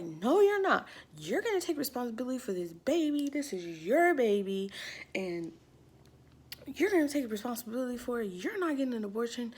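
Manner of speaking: fast, emphatic mock lecture; retold scolding. Youth pastor forbidding an abortion, mock scolding. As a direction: imitate laying down the law in a rush.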